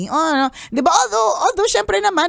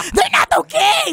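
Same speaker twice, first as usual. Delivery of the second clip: laughing shout, much higher; emphatic outburst. Pretend. Host shouts at caller that lying isn't okay. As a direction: burst out in mock outrage.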